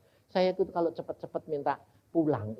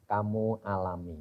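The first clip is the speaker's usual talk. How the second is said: lightly voiced Lord; 9 semitones lower, 5 dB quieter than usual. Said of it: "Terus Tuhan bilang".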